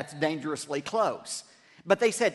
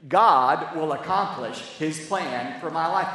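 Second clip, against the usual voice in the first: leading the crowd; 6 dB louder than usual. Shown as a demonstration. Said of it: "Say it with me".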